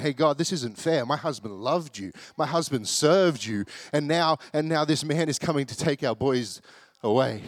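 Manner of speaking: mama bear appealing to God, a bit of fire; indignant appeal, lightly acted; fiery mama bear. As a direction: plead the case with some fire. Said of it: "She's got a bit of fire in her bones. She's gone a bit mama bear".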